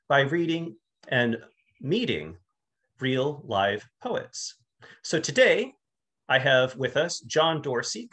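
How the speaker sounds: lively, slightly sing-song host read; measured presenter reading with lifted key words; scripted show intro. Acted. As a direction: read out a poetry podcast introduction. Reads scripted show introduction and biography.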